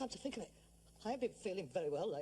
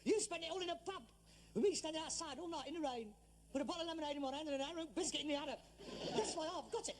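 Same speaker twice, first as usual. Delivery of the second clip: higher, heated accusing rant; angry complaint; 6 semitones higher than usual. Acted. Son rounds on his father with heated blame. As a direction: throw the blame at him hard.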